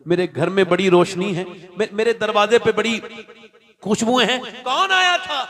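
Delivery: mildly excited retold question, pitch climbing to a high finish. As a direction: build in wonder towards an eager, high question. Acting the Prophet asking excitedly at home.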